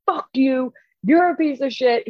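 imitated taunting; retold obscene yelling. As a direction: hurl abuse like a taunting fighter, half-hearted yell. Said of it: "He's fucking yelling every obscene".

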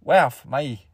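lightly put-on, halting Aussie accent; Australian accent. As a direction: attempt a mock Australian reaction. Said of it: "That's Australian".

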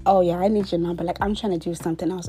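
suggestive come-on. Retold or imitated. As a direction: imitate a man with ulterior motives. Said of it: "the way he said it".

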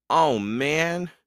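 put-on a young boy's voice, letting out a mild sigh; a hint of relief in a boy's sigh. A narrator's reading. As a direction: breathe it out like a tired kid. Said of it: "Jack sighed".

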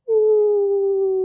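high whooping cheer; excited woo. Pretend. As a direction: cheer it out as the marble flies. Launching marble from mech.

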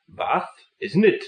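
put-on slow, high royal English accent; Prince of Wales accent. Prince of Wales saying Bath, slow royal accent. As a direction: draw out a royal accent, rising at the end. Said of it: "Bath is how I imagine the Prince would".

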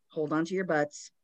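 lightly growled, slightly low; a touch of growl; growly voice. Retold or imitated. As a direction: imitate a spooky growl, understated. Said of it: "in a growly voice".

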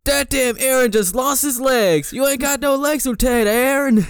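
squeaky mocking jeer; mock taunting voice. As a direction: tease him like a playground bully. Mocking character losing legs.

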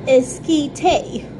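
esquite in a typical American accent, ess-KEE-tay. Shown as a demonstration. To viewers, how Americans would say it: American-accent esquite. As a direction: say esquite with American English vowels. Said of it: "the way we would say it in our typical American accent".

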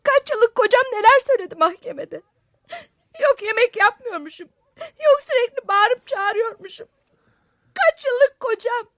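tearful, high and loud sobbing complaint; crying. Acted. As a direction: cry it out, voice breaking. Crying over husband's court words.

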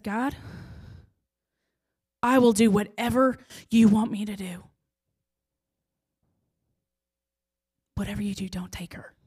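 plea that fades into a whispered, breaking don't take her; desperate prayer to whisper. Retold or imitated. Mother begging God in the car, fading to whisper. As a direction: surrender everything, then barely breathe the last words.

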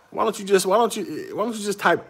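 high, laughing plea; laughing exasperation. Real, not acted. Vlogger mocking cousins' typing, high and laughing. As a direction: squeeze the words out through a laugh.

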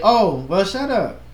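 light, casual "shut up", no bite; nice and calm. Shown as a demonstration. Showing how the speaker might say it harmlessly, nice and calm. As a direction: say it calmly, lifting the pitch on "shut up". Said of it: "I could say it's nice and calm".

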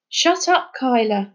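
high snapped order; sharp rebuke. Acted. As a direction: silence her sharply. Jazz silences gloomy Kyla.

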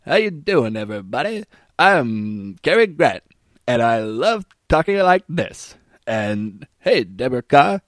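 a hint of a tipsy robotic movie star; mock Cary Grant, stiff and slurred; drunk robot Cary Grant. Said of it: "He sounds like".

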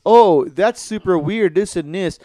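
mock a snooty reaction, leaning loudly on the opening; mock condescending. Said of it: "super condescending and".

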